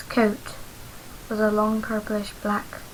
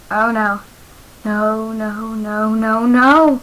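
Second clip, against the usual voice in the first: rising panicked scream; building from worried to screaming; 9 dB louder, much slower than usual. A narrator's reading. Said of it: "I screamed as I ran".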